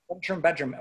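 "front room" blended into "frunchroom"; words merged together. Shown as a demonstration. Chicagoan repeating the local form, "front room" merged into one word. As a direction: run "front room" and "bedroom" each into a single word. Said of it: "we tend to merge these together".

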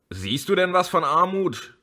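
can't believe what she hears; disbelieving high question; astonished. Acted. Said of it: "fragte Jana Bertha erstaunt".

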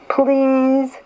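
high, little pleading voice; small pleading fish. Acted. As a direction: beg like a tiny fish. Little blue fish begs.

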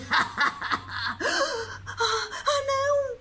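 high, loud, stammering terror; scared child. Acted. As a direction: squeal in fright like a small boy. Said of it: "disse-lhe o Mateus".

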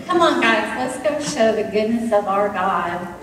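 lightly voiced Meshach, excited, then awed; a hint of Meshach marvelling at the rescue; Meshach in the furnace. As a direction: retell the furnace as Meshach living it, lively and amazed. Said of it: "what it might have been like for Meshach".

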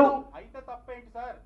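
loud, slow pushback at the politician; heated challenge. Real, not acted. Reporter challenging the politician, loud and slow. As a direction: demand an answer, drawn out.

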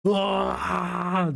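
a playful imitated shout of joy; a silly pretend crowd cheer; mock yell. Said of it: "diye bağırır yani".

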